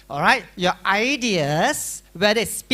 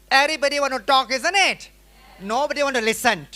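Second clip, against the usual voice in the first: raised, rushed voice of everyone talking at once; 5 semitones higher, 4 dB louder than usual. Shown as a demonstration. Teacher shows students all talking at once, loud and fast. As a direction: talk over each other, fast and loud. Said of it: "How do you speak?".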